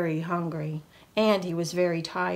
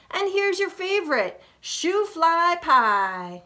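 put-on high boy voice; 8 semitones higher, 4 dB louder than usual. Buzz offers the pie.

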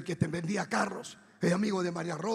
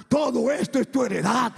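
loud, raised thundering proclamation; voz de trueno; 4 semitones higher, 6 dB louder than usual. Retold or imitated. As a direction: thunder it out as a voice from heaven. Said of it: "que retumbaba como trueno". (voz fuerte que retumba como trueno)

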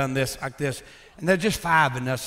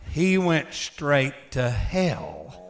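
slow growl; much slower than usual. Shown as a demonstration. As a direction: growl each word slowly. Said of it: "I'd growl when I say it".

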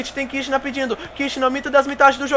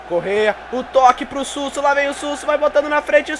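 ordinary talk

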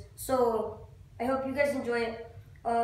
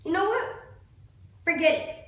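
exasperated; 3 semitones higher than usual. Acted. Acted monologue, giving up on God.

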